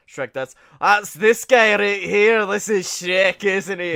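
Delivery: loud, slow put-on cartoon ogre voice; imitating John Cena's Shrek. Imitating John voice acting for a photo, Shrek voice. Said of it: "John Cena's really good at voices".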